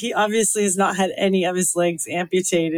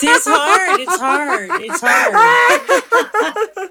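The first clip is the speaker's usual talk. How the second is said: high, helpless laughter through the words; real laughing fit, squealed words; laughing hard; 11 semitones higher, 5 dB louder, much slower than usual. Real, not acted. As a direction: say it while cracking up. Cracking up at the failed attempt.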